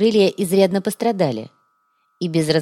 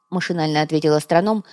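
usual speaking voice

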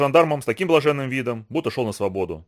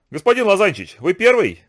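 higher, raised-voice challenge; called out; 5 semitones higher, 5 dB louder than usual. A narrator's reading. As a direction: call out sharply across to him. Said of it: "крикнула мать". (громкий, высокий окрик)

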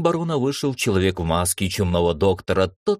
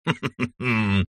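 cat's chuckle. A narrator's reading. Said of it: "рассмеялся весельчак".

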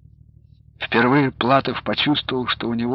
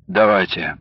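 groggy just-woken rasp; hoarse from sleep; 5 semitones lower than usual. A narrator's reading. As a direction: croak it half awake. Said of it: "хриплым с просонья голосом".

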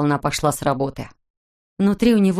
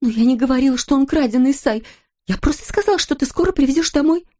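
much higher, desperate pleading; a terrified wife pleading with her husband; 7 semitones higher than usual. Acted. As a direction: beg him to understand.

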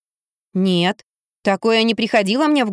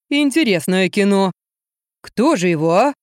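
heavy man's voice. A narrator's reading. Мужик рассуждает об убийстве, медленно и низко.

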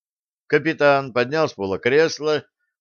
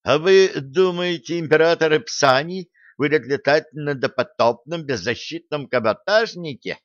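loud, high-pitched sarcasm; pointed, sarcastic jab in a raised voice; snide; 6 semitones higher, 3 dB louder than usual. A narrator's reading. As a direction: needle them with a mocking question. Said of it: "съехидничал Юнга".

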